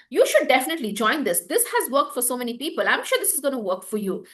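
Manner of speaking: fast, pushy sales pitch; too salesy. Shown as a demonstration. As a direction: push the offer hard and quick. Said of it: "This is too straight. This is too salesy. This is too pushy".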